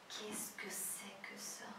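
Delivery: whispered, slow disbelief; barely voiced, astonished whisper; stunned surprise. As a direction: imitate a film character's hushed astonishment. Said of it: "Ele tá surpreso".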